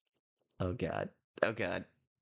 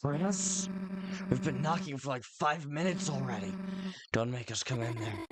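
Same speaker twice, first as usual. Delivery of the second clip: impatient friend at the door; 4 semitones higher than usual. Acted. Friend knocking at Chris's door, impatient and fast. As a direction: hurry him up through the door.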